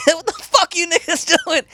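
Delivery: high, loud put-on voice of a startled squatter. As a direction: play the woken-up guy yelling up the stairs. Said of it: "mustered up the courage".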